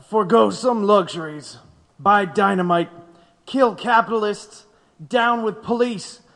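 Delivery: rousing read-out; building reading. Acted. Witness reads inflammatory paragraph.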